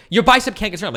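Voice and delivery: high, loud sneering objector; mock contrarian opponent. Imagined opponent contradicting him, high and mocking. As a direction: play the contrarian scoffing. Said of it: "It's like".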